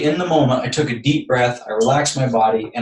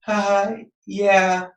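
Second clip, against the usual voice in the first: higher, put-on offhand reply; imitated careless neighbor; 7 semitones higher than usual. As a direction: mimic her blithe admission in a raised voice.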